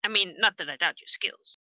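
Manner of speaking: high character voice. Acted. Player in character, high far.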